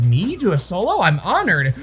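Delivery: high, rising in flattered disbelief; lightly voiced high-pitched, whiny deputy; Barney. Flattered deputy answering an offer of a solo, high mock surprise. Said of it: "He has a high-pitched, whiny voice".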